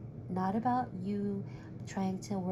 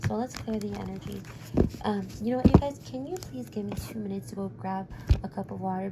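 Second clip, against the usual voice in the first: losing voice; 5 dB louder than usual. Real, not acted. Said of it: "because I'm losing my voice here".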